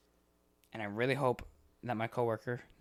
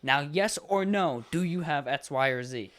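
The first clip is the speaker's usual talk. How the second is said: slow, mildly pretend-furious; what you wish you could say to the caller; mock outburst; 3 dB louder than usual. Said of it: "I want to literally go".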